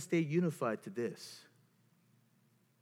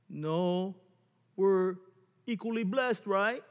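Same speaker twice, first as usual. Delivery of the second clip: higher, pleading self-defence; defending oneself; 6 semitones higher, 4 dB louder, slower than usual. Acted. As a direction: defend your worth to a scornful partner. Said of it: "you're always defending".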